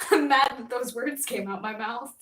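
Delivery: laughing through the words, tearing up; helpless embarrassed laughter; giggling at her own slip. Real, not acted. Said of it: "I'm losing my mind".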